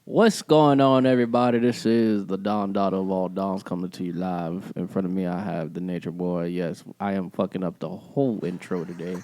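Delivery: smooth, low radio host greeting; put-on radio host voice. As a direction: open big, then settle into a low on-air croon. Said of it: "This is our radio voice".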